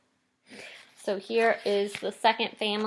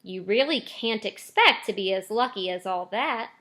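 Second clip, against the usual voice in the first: gentle. Acted. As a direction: soften the blow for her son. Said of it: "Missus Bucket said gently".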